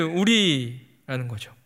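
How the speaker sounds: whisper. Real, not acted. Preacher drops to confession.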